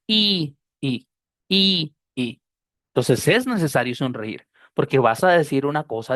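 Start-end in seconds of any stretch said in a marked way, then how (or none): 0.1-2.4 I alternating stretched ee and quick lax ih; first I long and tense, second I short and lax; long i versus short i. Shown as a demonstration. Teacher showing students the difference, long versus short i. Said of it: "¿Ven la diferencia?".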